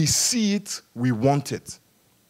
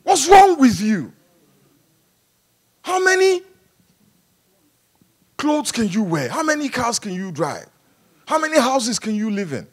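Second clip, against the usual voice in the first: God rebuking; 3 semitones higher than usual. Retold or imitated. Preacher voices God rebuking greedy congregation, weary exasperation. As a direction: ask it like God losing patience. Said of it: "that is what God is saying".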